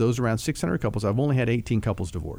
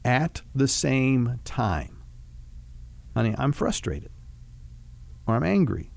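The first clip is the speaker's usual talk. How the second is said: softer, calmer, unhurried words to a spouse; gentle talk to wife; 3 dB quieter than usual. Shown as a demonstration. Husband modelling a loving confrontation to his wife, softly and calmly. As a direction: talk to her tenderly, like you mean it. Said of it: "Something like".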